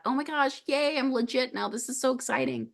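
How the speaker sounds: high, breathless little squeal of joy; giddy excitement. Retold or imitated. Pilgrim thrilled to finally own a shell, giddy high squeal. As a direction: gush like a kid who just got the prize.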